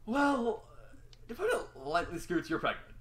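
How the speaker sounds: just spit it out; spat out. A narrator's reading. Nurse finally blurts the news to Scootaloo, loud and high. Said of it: "until she spat out".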